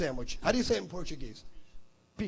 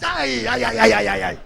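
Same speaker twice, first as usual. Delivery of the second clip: mock ay ay ay; 9 dB louder than usual. Mock exclamation again.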